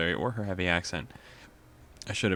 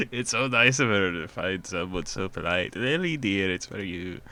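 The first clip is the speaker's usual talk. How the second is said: lightly Scottish mother; 3 dB louder than usual. Acted. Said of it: "we're gonna try the accent".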